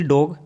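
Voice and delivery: डॉग, with a short open ऑ; डॉग को खुले ऑ से बोलें; English word dog. Shown as a demonstration. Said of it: "इसका उच्चारण डॉग". (डॉग में खुला ऑ)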